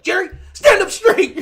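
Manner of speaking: high, loud call to stand up; loud urging call. Retold or imitated. Friends shouting at high Jerry to stand up straight. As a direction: shout her upright, teasing.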